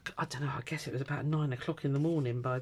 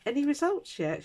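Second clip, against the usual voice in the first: high, strained polite question; exasperated asking; 13 semitones higher, 3 dB louder than usual. Retold or imitated. Patient asking the nurse again, high and strained. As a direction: ask through clenched patience.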